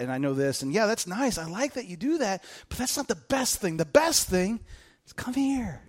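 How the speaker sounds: soft, gentle reassurance; tender Jesus. Retold or imitated. Jesus tenderly reassuring a striving believer, softly. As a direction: coax them in gently. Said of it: "Jesus is like".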